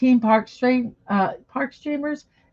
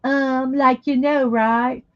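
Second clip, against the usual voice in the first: put-on Valley Girl accent; 2 semitones higher, slower than usual. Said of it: "my Valley Girl accent".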